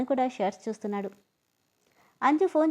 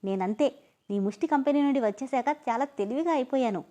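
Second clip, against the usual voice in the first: proud boast. Acted. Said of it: "గొప్పగా ఫీలవుతూ".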